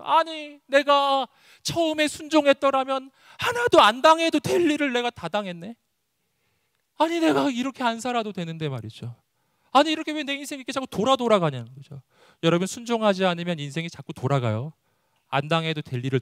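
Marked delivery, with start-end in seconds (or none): 0.0-12.0 high-pitched, exasperated protest; indignant complaint. Acted. Preacher as Jonah angry at his detours, exasperated. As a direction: grumble upward at your own wasted trouble. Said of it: "제가 요나라면 이게 너무 화가 났을 것 같아요".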